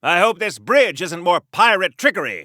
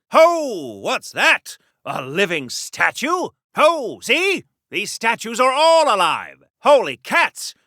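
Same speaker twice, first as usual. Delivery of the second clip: high, startled exclamations; theatrical amazement, pitched high in bursts; astonished; 3 semitones higher, slower than usual. Acted. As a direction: gasp out your amazement at a shocking discovery. Startled by living statues.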